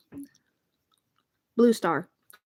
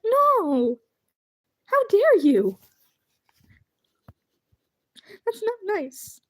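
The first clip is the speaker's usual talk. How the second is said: squealing mock outrage; 10 semitones higher, 4 dB louder, slower than usual. Real, not acted. Flustered by kind chat.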